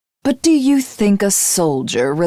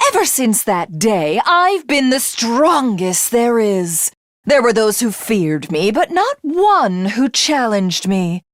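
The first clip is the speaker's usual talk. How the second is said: gloating boast; 4 semitones higher than usual. Acted. Gloating over her own victory.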